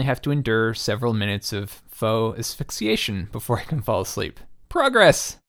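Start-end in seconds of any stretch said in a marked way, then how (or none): 4.7-5.4 mock-triumphant high exclamation; sarcastic. Real, not acted. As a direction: cheer it with dry irony. Sarcastic cheer about sleep gasping.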